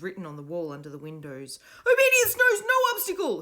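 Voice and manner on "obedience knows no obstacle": high, loud slogan cry; boy shouting the factory motto; cried out. A narrator's reading. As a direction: chant the motto as a command. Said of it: "he cried".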